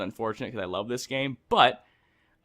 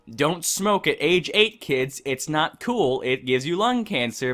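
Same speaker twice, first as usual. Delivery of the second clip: preachy public-service-ad voice, high and drawn out; mock PSA voice; 5 semitones higher, 5 dB louder, slower than usual. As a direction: lecture kids like a cheesy ad. Mocking an anti-smoking ad for kids.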